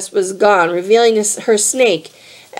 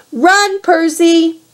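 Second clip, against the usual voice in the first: shouted; 8 semitones higher, slower than usual. A narrator's reading.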